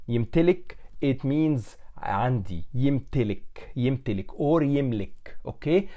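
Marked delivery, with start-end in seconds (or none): 0.1-4.3 يمتلك said clearly, the Egyptian way; egyptian arabic. Shown as a demonstration. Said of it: "So the verb يمتلك".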